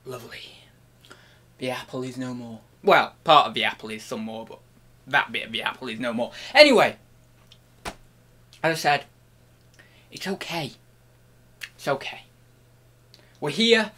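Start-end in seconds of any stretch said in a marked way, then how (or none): 0.1-0.6 soft unvoiced whisper; whispered lovely. Real, not acted. After finishing his apple, a contented whisper. 10.1-12.2 whispered reassurance. Acted. Reassuring viewers.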